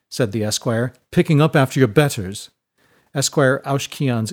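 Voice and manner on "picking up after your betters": haughty schoolboy taunt; jeering bully. Acted. Esquire tells Seinen to pick up books, jeering. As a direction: rub it in, slightly raised voice.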